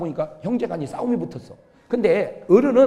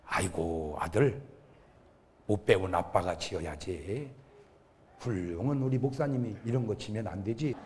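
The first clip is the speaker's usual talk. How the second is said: low, soft, tender refusal; humble father; 9 semitones lower, 11 dB quieter than usual. Retold or imitated. Uneducated father spares his pastor son the load, low tender voice. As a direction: gently wave the son off, very quietly.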